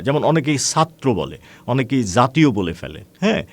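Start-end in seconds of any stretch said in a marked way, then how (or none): 0.6-1.1 ছাত্র with an s sound, "satro"; regional mispronunciation. Shown as a demonstration. Teacher showing students a regional slip, ছাত্র mispronounced with s. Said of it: "তারা বাধার সম্মুখীন হয়". 2.0-2.5 জাতীয় with a z sound, "zatiyo"; regional mispronunciation. Shown as a demonstration. Teacher showing students a regional slip, জাতীয় mispronounced with z. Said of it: "তারা বাধার সম্মুখীন হয়".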